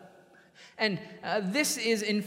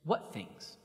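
breathy, near-whispered ask; almost whisper it, innocent; hushed question; 5 semitones lower, 9 dB quieter than usual. Retold or imitated. Jesus innocently asks back.

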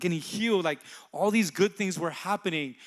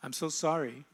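soft retold apology, trailing quieter; remorseful apology; 2 semitones lower, 7 dB quieter than usual. Mother apologizing to her children, softly remorseful. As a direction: quietly relay a mother's sorry.

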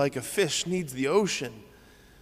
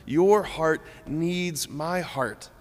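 tender father; 3 semitones higher, slower than usual. Retold or imitated. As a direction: speak as a longing father. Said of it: "God the Father's heart saying".

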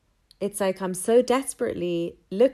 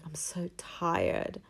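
tired sigh; 6 dB quieter, much slower than usual. Retold or imitated. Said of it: "I was just like".

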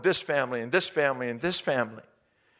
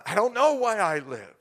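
retold confession; 7 semitones higher, 4 dB louder than usual.

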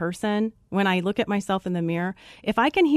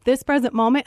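incredulous; 5 semitones higher, 5 dB louder than usual. Retold or imitated. Incredulous at the dog's name.

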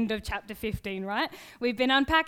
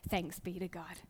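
quiet congregation response; 5 semitones lower, 11 dB quieter than usual. Retold or imitated. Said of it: "and then people would say".

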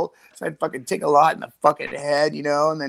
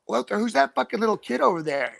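mock adult player; 7 semitones higher than usual. Voicing adult players in story.

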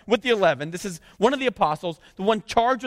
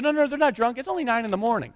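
casual retelling; 5 semitones higher, faster than usual. Retold or imitated. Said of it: "He goes".

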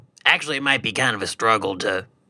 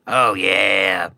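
lower, mopey Oh yeah; moping; 4 semitones lower than usual. Retold or imitated. Gloomy Kool-Aid Man moping around, a touch of sulk. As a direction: mumble it like a depressed mascot. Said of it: "moping around going".

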